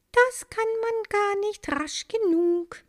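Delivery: high, eager retort; thrilled little bee. A narrator's reading. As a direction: answer full of flying joy. Maya thrilled.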